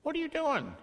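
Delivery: high protesting voice; mock indignant doubter. Shown as a demonstration. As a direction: act the startled doubter. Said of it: "don't do that with me".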